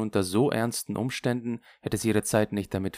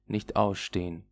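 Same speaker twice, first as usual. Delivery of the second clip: ordinary delivery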